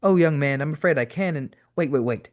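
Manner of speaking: put-on fussy old English caller turning curious; old English gentleman. A narrator's reading. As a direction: play a polite old Englishman. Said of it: "the old m-, gentleman wanted to know".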